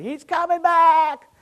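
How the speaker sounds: high, loud, slow shout; loud announcing shout; retold scream. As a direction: cry it out to the whole room. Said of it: "screamed at everybody".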